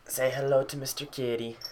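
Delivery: high, sing-song cooing to a cat; pet talk. Real, not acted. Introducing pet cat to the viewers, high pet-talk voice.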